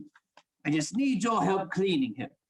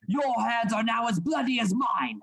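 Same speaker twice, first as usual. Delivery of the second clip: angry accusation; 4 semitones higher than usual. Acted. Heated quarrel over the murder.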